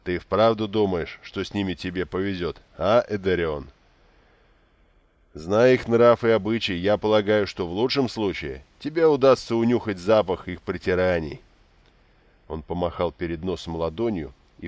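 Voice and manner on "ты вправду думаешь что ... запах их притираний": louder mocking young lord; smirking dandy. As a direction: deliver the jab with a smirk, loud. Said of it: "Усмехнувшись, он провёл пальцем по носу и сказал".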